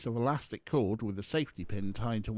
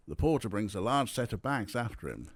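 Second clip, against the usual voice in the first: plain reading voice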